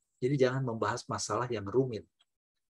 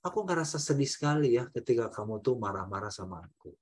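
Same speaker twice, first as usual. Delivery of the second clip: softer, sincere feeling statement; speaking to an angry partner, soft and sincere; 4 semitones lower, 5 dB quieter than usual. Shown as a demonstration. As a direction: share your hurt gently. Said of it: "ekspresikan perasaan kita dengan bahasa I".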